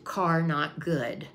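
slow, lightly voiced broken English; a mild imitation of a foreigner's halting English. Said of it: "he says in broken English to me".

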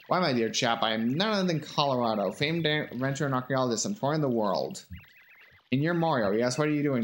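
lightly voiced British adventurer, my dear chap; a hint of a pompous archaeologist; posh explorer voice. Voicing Colorado the explorer.

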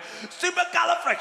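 high, slow mock struggle; wife stumbling on word.

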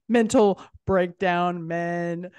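"Mental breakdown men" drawn out slowly word by word; host spelling out her joke to the guest; slow punchline. Shown as a demonstration. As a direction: land the pun slowly. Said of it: "Get it?".

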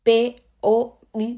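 normal talking voice

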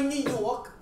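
lightly demonstrated New York accent; slow New York accent on the city's name. Shown as a demonstration. Guest shows host regional accents, light New York accent. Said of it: "Kasi New York accent is".

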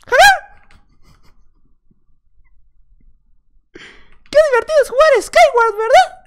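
very high squeaky cartoon mouse voice; high-pitched falsetto cartoon host; Mickey Mouse. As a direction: play a chirpy cartoon mascot greeting little friends. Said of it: "voy a hablar como si fuera Mickey Mouse".

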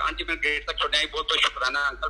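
a touch of gentle politeness; understated calm thanks. Retold or imitated. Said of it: "ਬੜੇ ਆਰਾਮ ਨਾਲ ਬੋਲਿਆ".

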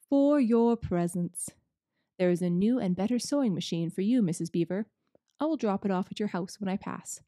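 a hint of a jolly old giver; Father Christmas, lightly voiced. Father Christmas handing out presents, lightly voiced.

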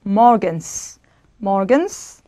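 morgens ending in a hissed S; voiceless S. Shown as a demonstration. Teacher models unchanged S for students, voiceless ending. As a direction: finish morgens on a clear unvoiced S. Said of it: "그대로 스 발음 되는 경우".

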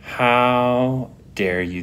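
slow, stunned indignation; mock-offended how dare you; indignant. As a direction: drag out the disbelief. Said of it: "The indignation".

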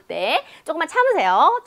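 ordinary delivery

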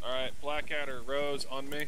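loud call to teammates; yelling across the room. Real, not acted. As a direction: shout the order across the room. Calling squad to follow.

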